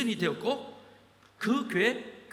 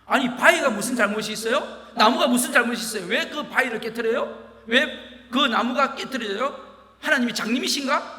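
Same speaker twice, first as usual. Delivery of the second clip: loud, sneering rhetorical questions; mocking scorn; 2 semitones higher, 7 dB louder than usual. A young man mocking the preacher about lightning, loud sneer. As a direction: jeer at the preacher's God. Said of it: "아주 비웃으면서".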